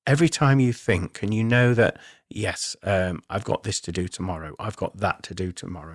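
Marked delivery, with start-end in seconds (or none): 2.3-5.9 quick, hushed thinking-to-yourself voice; inner monologue voice. Retold or imitated. Medium voicing a student's inner thoughts, quick and hushed. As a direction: murmur your to-do list like a thought in your head. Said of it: "that voice in your head".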